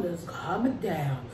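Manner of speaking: slow, soft and low; soothing. Real, not acted. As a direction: ease it down gently.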